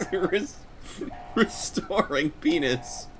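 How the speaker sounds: slow robot announcer voice. Retold or imitated. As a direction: drone it like a machine. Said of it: "a robot voice".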